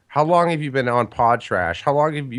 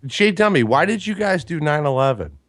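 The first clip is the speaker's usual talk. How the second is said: joking shout; 4 semitones higher than usual. Real, not acted. Shouted joke question.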